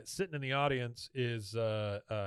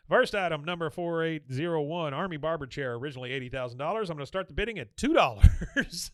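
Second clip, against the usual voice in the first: auctioneer; 3 semitones higher, 5 dB louder than usual. Retold or imitated.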